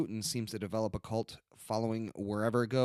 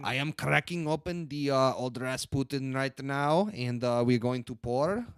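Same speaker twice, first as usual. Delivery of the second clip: put-on horrible Russian accent; 2 semitones higher, 4 dB louder than usual. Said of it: "I apologize if I offend anyone with my horrible accent".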